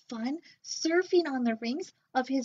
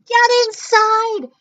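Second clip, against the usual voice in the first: high slow loud command; urgent shout; 12 semitones higher, 12 dB louder than usual. Acted. Nezlex shouting to the siblings, high and loud. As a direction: hurry them inside. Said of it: "cried Nezlex".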